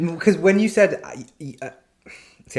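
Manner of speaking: stuttering, flustered. Talking about a story with a lot of sex, speaker admits: stuttering, a bit flustered. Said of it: "I'm stuttering now because I'm a bit feeling".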